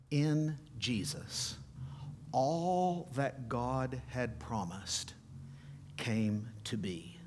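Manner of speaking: slow, soft, fading into a whisper; preacher hushing the congregation in awe; hushed awe. Real, not acted. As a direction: let it sink in, barely breathing. Solemn slow climax.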